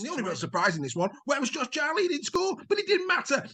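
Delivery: big rising sports-highlights commentary, a few shouts; excitable commentary. Acted. Presenter calling the highlights reel with hammed-up excitement. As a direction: sell every score like the match of the year.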